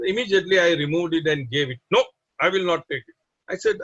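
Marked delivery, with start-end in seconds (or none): 2.0-3.1 rapid-fire imitated refusal; quick, insistent retold objection; firm refusal. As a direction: cut in fast with a mock-stern no.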